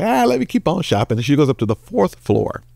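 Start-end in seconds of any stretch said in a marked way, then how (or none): 0.0-1.2 high, light voice for the woman shopper; woman's voice. Acted. Pastor voicing a woman shopper in a joke, high voice. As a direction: play the eager woman shopper, pitched up.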